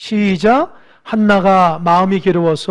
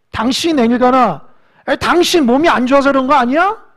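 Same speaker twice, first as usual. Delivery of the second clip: louder, reproachful toward husband; mock accusing; 3 semitones higher, 5 dB louder than usual. Hannah blaming her husband Elkanah, in mild mock reproach. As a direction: pin the blame on him.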